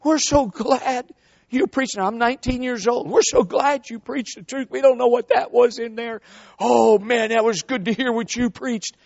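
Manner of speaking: put-on old women thanking the young preacher; elderly women. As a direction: lightly voice the grateful old ladies. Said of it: "they said".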